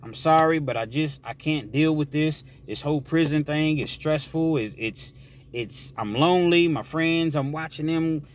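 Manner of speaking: a lightly voiced girlfriend, apologetic and sad; girlfriend on the phone. Girlfriend breaking it off on a prison call, lightly voiced.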